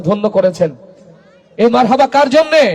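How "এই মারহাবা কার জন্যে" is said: raised, higher call to the crowd; louder prompt. Real, not acted. Preacher asking the crowd who the marhaba is for, raised and higher. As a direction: call it out brightly to rouse them. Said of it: "আরো আস্তে বলি".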